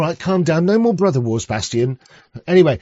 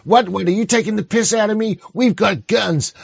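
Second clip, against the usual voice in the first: raised, indignant American imitation; mock American accent; 5 semitones higher than usual. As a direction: play an affronted American, pitched up. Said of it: "in that weird accent".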